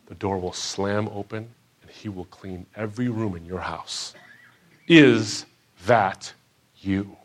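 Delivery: slow, weighty pastor's challenge; quoting the pastor. Retold or imitated. Pastor's closing challenge to the room, slow and hushed. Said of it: "he said".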